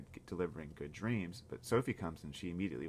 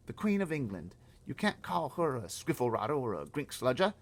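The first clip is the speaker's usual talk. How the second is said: Sophie, high and urgent, much louder; a small girl pleading to stop the giants; high girl's voice; 9 semitones higher, 7 dB louder than usual. Acted. Girl begging the giant, high and loud.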